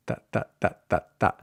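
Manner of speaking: Ta with tongue against back teeth; short unaspirated Ta; tongue on teeth, no puff on Ta; dental Spanish t. Shown as a demonstration. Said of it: "tip of your tongue against the back".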